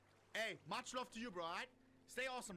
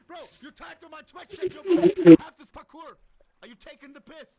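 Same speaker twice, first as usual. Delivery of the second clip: angry; 8 semitones higher, 27 dB louder than usual. Real, not acted. Annoyed at fake parkour.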